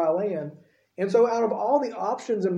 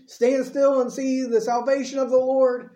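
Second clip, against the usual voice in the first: higher, louder, declaiming; grand speech; 5 semitones higher, 3 dB louder than usual. Retold or imitated. Moses giving the people a grand speech, raised and loud. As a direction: give it big like a great speech. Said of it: "giving them this great speech".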